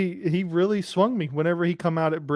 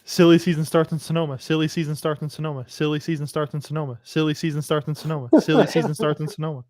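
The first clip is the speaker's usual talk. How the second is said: rapid tongue twister. Shown as a demonstration. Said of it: "five times fast".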